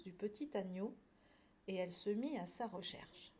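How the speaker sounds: measured storybook reading; lecture d'album jeunesse. A narrator's reading. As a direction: read it to young listeners, phrase by phrase. Reads a picture book aloud. (lecture de conte pour enfants)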